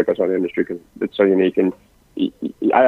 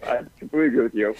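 quick, run-together agreement; fast talking; 3 semitones higher, 6 dB quieter, faster than usual. Real, not acted. Guest agreeing with the host's remark on speed, fast talking. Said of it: "I need to work on speaking more slowly".

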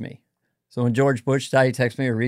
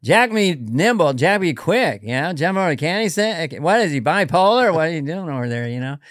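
Norm impression. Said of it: "we do Norm".

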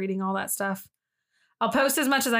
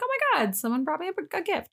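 thrilled grandma; 8 semitones higher than usual. Retold or imitated. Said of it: "but she'd just be like".

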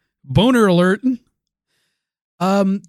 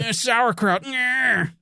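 high, prissy sniff of approval; snobby purist voice; 7 semitones higher, much slower than usual. Pretend. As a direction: savor it like a fussy snob. Mocking a sandwich purist.

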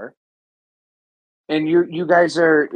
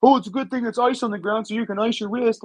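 higher mock taunting fan voice; mocking jeering fan; 4 semitones higher than usual. Jeering at an injured rival like a heckling fan, mocking. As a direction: sneer at the injured player like a nasty fan. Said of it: "I'm not gonna sit there and be like".

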